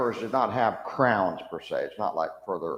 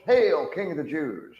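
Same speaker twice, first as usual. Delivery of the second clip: sneering aside; 6 semitones higher than usual. Retold or imitated. Soldier turning to his comrades, sneering aside. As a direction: share the joke with the other soldiers. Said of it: "they're looking to the other soldiers".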